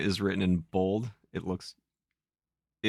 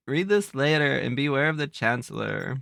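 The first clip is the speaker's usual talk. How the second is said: put-on high, breezy Valley Girl warning; Valley Girl Zelda; 4 semitones higher than usual. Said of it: "You're getting Valley Girl".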